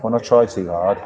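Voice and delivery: restrained Welsh accent. Shown as a demonstration. Host admitting the accent slips, light Welsh accent. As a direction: keep the Welsh accent easy, low in pitch. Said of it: "my Welsh accent was almost, almost bang on".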